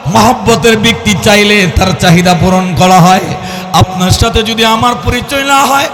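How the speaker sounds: lightly intoned sermon cadence; waz preaching. Acted. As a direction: explain it in a preacher's lilt.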